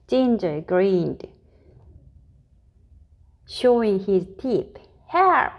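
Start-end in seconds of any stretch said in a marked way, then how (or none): 5.1-5.5 high, louder cry of "Help!"; frightened shriek. Acted. Miss Tiny cornered by Ginger the cat, shrieking in fright. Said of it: "shrieked Miss Tiny at the top of her voice".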